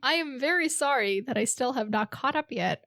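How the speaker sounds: dry, mocking apology; sarcastic. Shown as a demonstration. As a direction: say sorry with a sarcastic edge. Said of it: "I said that in a sarcastic way".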